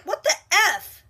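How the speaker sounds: high, shocked "what the F"; mock outraged gasp; shocked outrage. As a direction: squeal it in disbelief. Outraged at losing valedictorian.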